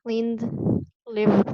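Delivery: "Cleaned, lived" each ending in a voiced d. Shown as a demonstration. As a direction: model "Cleaned, lived" as single syllables closing on d. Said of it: "the E D as th".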